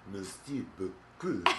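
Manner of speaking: slow, creepy villainess purr; creepy Cruella de Vil. Retold or imitated. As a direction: draw it out weirdly, like a moaning villainess. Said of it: "she says it in this weird, creepy, like, Cruella de Vil way".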